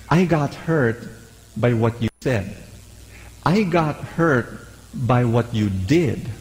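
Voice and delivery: slow, even and calm; calm statement. Shown as a demonstration. Calm words to a difficult person. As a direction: say it calmly without blame. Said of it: "but you say it in a calm way".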